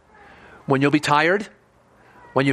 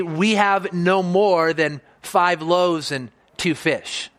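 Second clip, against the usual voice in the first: drawn out, voice sinking on fish; the disciples tell Jesus, slow and deflated; much slower than usual. Retold or imitated. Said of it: "They say".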